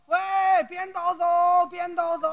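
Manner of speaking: 模仿警察大声嚷嚷; 冲路人喊着赶他走. Retold or imitated. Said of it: "站这儿就嚷". (学警察嚷：“变道走”)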